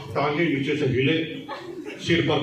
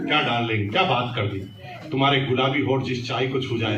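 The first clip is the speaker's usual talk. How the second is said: low, lightly crooned flattery; mock-romantic sweet talk; 5 semitones lower than usual. Husband flattering wife about sugarless tea, mock-romantic. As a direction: play the adoring husband, pitched low.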